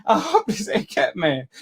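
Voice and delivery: laughing through the words; amused, derisive laugh-talk; mocking laughter. Real, not acted. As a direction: chuckle while doubting him. Laughs mockingly at the other caller.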